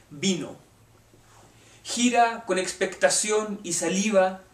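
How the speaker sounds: measured poetry reading, phrase by phrase; poem recitation. Acted. Reads a poem aloud.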